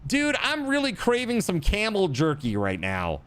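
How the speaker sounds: high, dopey mock craver; hammed-up camel jerky craver; mock craving voice. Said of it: "who's like".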